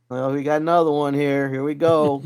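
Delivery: amused scoffing at a newcomer; mocking jeer. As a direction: jeer at the new guy like a bored veteran. Mocking students in class.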